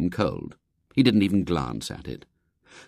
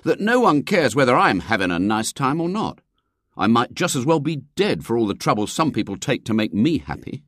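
sulky schoolboy voice, higher; aggrieved boy; 4 semitones higher than usual. Acted. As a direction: complain like a hard-done-by boy. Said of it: "he said aggrievedly".

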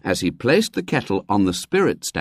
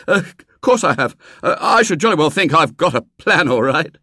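put-on higher boy's voice, blustering; falsely confident boy; 7 semitones higher, 4 dB louder than usual. Boy pretending he has a plan, falsely confident. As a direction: bluff through it with hollow assurance.

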